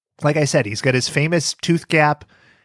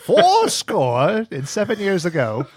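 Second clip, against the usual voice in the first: put-on old-timey narrator; 4 semitones higher than usual. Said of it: "Dennis Miller was an old-timey narrator?".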